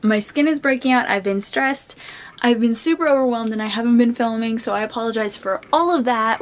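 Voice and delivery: talking through hiccups; trying to hold back hiccups. Real, not acted. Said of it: "I have hiccups".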